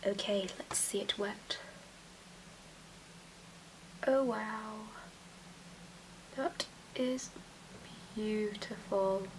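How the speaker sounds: soft whispered awe, drawn out; awed whisper. Real, not acted. Whispering in awe at her sparkling eyelid. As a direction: breathe it out, amazed. Seeing wet shimmer, awed hush.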